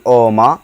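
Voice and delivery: ओमा with a drawn-out final a, not ओम; pronounce oma. Shown as a demonstration. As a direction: say ओमा slowly, ending on a clear open a. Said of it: "इसको ओम नहीं पढ़ेंगे, इसको पढ़ेंगे ओमा".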